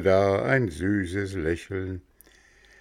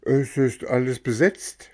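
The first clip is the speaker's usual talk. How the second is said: sweet coachman; 6 semitones higher than usual. Acted. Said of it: "sprach das Männchen".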